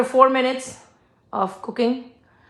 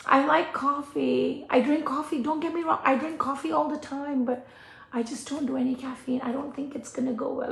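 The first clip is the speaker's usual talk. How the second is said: mock customer voice; 4 semitones higher, 8 dB quieter than usual. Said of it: "It's like saying that".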